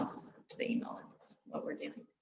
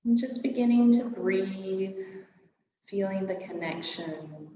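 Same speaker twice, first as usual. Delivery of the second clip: guided meditation; 2 semitones higher than usual. Real, not acted. Yoga teacher settling a class into their breath, calm guided meditation. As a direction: ease them gently into stillness.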